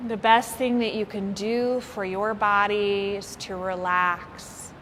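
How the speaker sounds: unhurried meditation guide with long pauses; lightly held yoga nidra voice; guided meditation. Real, not acted. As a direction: ease listeners into relaxation, phrase by phrase. Leads a guided body-scan relaxation.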